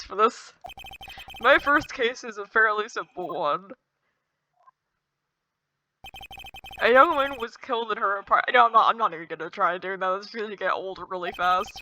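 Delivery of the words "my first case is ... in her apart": a hint of macho narrator; deep manly voice. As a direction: attempt a manly hero's voice. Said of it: "put on my deep, manly voice".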